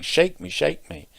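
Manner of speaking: a storyteller's imitation of a pleading call. Laden apple tree begging the passing girl, calling out. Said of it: "the tree calls to her".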